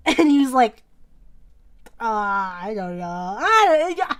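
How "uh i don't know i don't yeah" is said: mock-coy hemming and hawing; acting coy. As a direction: play coy, hesitant then insistent. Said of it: "he was acting all coy".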